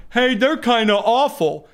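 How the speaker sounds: a light mock jab at the other side; mock finger-pointing. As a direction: sneer it out while pointing. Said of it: "pointing and going".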